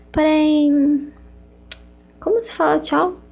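put-on high, slow, cutesy anime girl voice; sweet and cutesy, with a giggle. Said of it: "com a minha voz fofinha".

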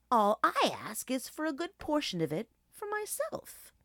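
high, exclaimed no, then coaxing wolf; persuasive wolf. A narrator's reading. Wolf persuading the hungry old dog, coaxing. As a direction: argue eagerly in a high-pitched wolf voice.

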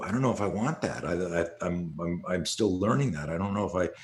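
soft, musing imitation; introspective. Imitating a co-host unsure on the show, introspective. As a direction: think it over quietly, haltingly. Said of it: "introspective it was just here on the show".

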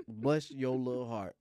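condescending. Retold or imitated. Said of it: "somebody ever says".

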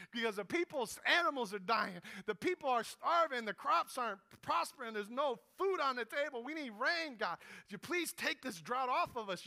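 loud, high-pitched plea to God; persevering prayer. Retold or imitated. Elijah begs God to end the drought, loud and pleading. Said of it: "Elijah's persevering in prayer".

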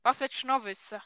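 Swiss German question. Shown as a demonstration.

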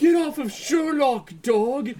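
urgent play-acted yell; mock shouted command. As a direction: shout the dog off your friend. Fighting the hound off his friend.

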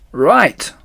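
loud agreeing call; the animals answering Mister Fox with a shout; shouted reply. Acted. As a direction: answer back together. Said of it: "they shouted".

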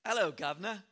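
playful put-on English accent greeting; mock English accent. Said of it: "speak with an English accent".

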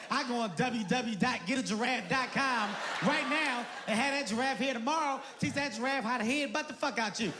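hammed-up defiant yell; defiant shouting. Defiant comeback about the giraffe.

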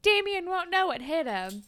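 mock pep talk. Podcaster voices Manny making over Liberty, hyping her up.

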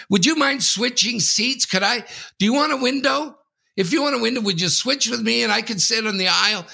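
overbearing mother. Retold or imitated. Mimicking the mother asking to switch seats, high syrupy. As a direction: ham up a sugary entitled mom. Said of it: "the overbearing mother".

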